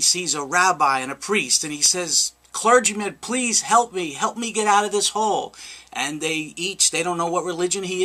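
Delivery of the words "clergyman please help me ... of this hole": higher-pitched mild pleading; retold plea. Trapped man begs a rabbi and priest for help, mild retold plea. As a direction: plead lightly, voice lifted.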